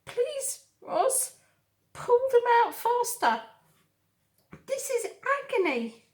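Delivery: high strained fox voice through clenched teeth; through his teeth. Acted. Wincing fox begs Roz, through his teeth. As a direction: force the words out through the teeth, in pain. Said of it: "said through his teeth".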